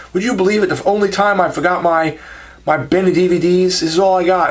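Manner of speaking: a rough attempt at a Southern seller; imitated Southern accent. Husband explaining his meagre stock, imitated Southern accent. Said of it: "like, a southern accent to them".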